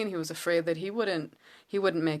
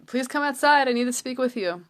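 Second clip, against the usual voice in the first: higher-pitched imitation of a pleading king; urgent pleading; 6 semitones higher, 3 dB louder than usual. Paro asks Moshe to come out and talk, pleading. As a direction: voice lifted in a retold appeal.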